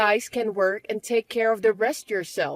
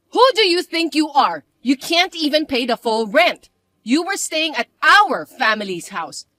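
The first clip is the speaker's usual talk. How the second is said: loud, scornful stepsister voice, raised pitch; a spoiled stepsister barking demands; bratty stepsister; 4 semitones higher, 8 dB louder than usual. Acted. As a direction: stepsister sneering at her older sister.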